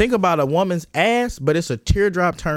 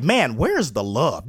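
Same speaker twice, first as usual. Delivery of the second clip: mock wounded plea; 6 semitones lower, slower than usual. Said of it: "I'm gonna be like".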